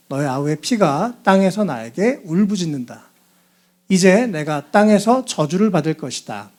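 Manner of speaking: measured, formal reading of scripture; solemn read-aloud narration. Acted. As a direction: read the Bible passage aloud evenly.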